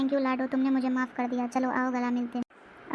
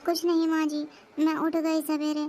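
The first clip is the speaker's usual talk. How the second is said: anxious; 3 semitones higher than usual. Acted. Daughter-in-law afraid she is late, timidly anxious. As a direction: answer timidly, fearing a scolding. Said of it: "तुम क्यों ऐसे बोल रही हो".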